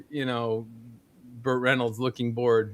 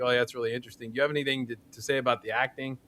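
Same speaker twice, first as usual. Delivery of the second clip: softer, unimpressed imitation; bored actor; 6 dB quieter, much faster than usual. Bored star to the class wanting to talk to him, uninterested. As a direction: answer fans with polite boredom. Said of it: "he just looks bored".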